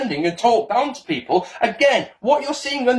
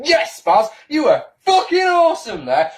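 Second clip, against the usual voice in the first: smug self-praise; 6 semitones higher than usual. Retold or imitated. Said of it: "you watch your vid back and go".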